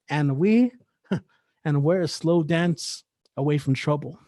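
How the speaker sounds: rhythmic spoken-word delivery, pausing between images; poetry recital. Acted. Poet performing for listeners, spoken-word recital. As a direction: perform it as a poem, riding the wordplay.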